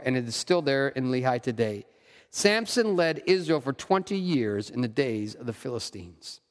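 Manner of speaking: steady, measured Bible reading voice; scripture reading. Acted. Pastor reading Judges aloud to his church, measured scripture reading. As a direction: read the passage aloud to the congregation.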